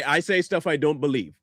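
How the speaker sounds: mocking quote. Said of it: "Only idiots like you would say".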